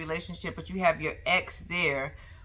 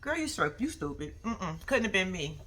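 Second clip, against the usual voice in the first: talking mess; 6 dB quieter than usual. Retold or imitated. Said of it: "I'm about to talk mess".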